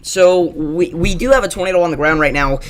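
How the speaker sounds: breathless urgent update; out of breath, still gasping. Real, not acted. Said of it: "I gotta kinda catch my breath here again".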